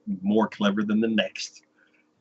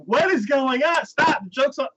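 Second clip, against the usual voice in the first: mock exasperation; 4 dB louder than usual. Exasperated viewer yelling at show.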